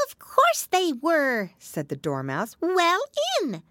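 high, slow dormouse squeak; matter-of-fact little mouse; sleepy snoring dormouse. A narrator's reading. Dormouse answers Alice.

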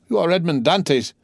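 high, incredulous cry; stunned cry. A narrator's reading. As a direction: shoot up in disbelief. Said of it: "cried Villefort".

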